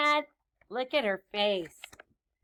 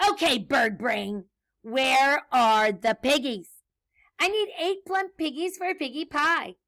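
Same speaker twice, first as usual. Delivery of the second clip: demanding witch; 3 semitones higher, 6 dB louder than usual. Acted. Witch demands piggies from the chicken, insistent scolding. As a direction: lean hard on each word.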